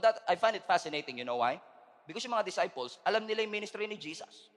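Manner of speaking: ordinary delivery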